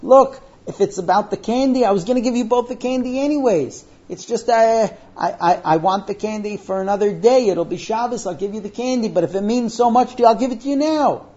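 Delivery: touched father, acted. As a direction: give in eagerly to a crying daughter. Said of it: "And he is so touched".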